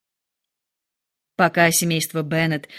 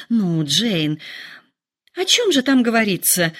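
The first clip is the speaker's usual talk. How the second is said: mildly pressing, rising at the end; a touch of eager impatience; impatient exclaim. Acted. Mother pressing daughter about the letter, mildly impatient. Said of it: "нетерпеливо воскликнула миссис Беннет".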